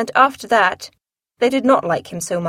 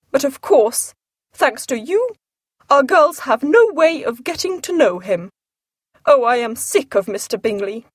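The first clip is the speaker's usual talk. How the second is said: Mrs Bennet, peevish; 3 semitones higher than usual. Acted. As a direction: blame him for it.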